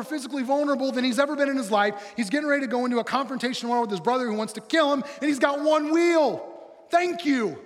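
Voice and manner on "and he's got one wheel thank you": sarcastic. Acted. Sarcastic comment on Jacob's injury.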